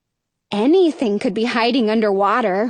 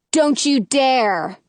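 warning; slower than usual. Acted. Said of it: "I warn".

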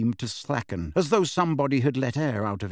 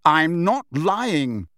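put-on raised, insistent boy's denial; louder, higher, stressed insistence; Harry, loud protest; 4 semitones higher, 5 dB louder, much slower than usual. A narrator's reading. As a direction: protest loudly, slow and emphatic. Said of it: "said Harry loudly".

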